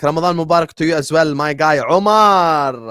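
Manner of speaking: hearty shout-out. Real, not acted. Greeting a viewer by name.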